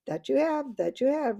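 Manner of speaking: loud, high, eager chorus agreeing; roaring enthusiasm. A narrator's reading. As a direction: roar it out, delighted to agree. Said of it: "roared the other voices with great enthusiasm".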